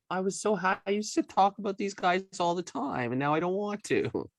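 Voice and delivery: mock whiny fan. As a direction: whine it like a let-down fan.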